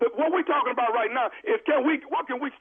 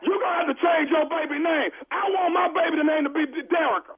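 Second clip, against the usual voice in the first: shouting; 5 semitones higher than usual. Pretend. Prank caller yelling at mother.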